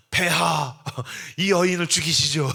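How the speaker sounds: loud mock guard's cry; urgent guard. Royal guard addressing the king, loud urgent cry. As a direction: call out to the king like a warrior.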